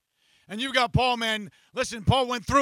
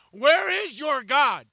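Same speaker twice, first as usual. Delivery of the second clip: mocking laugh; 3 semitones higher, 8 dB louder, slower than usual. Enemy mocking, laugh heard.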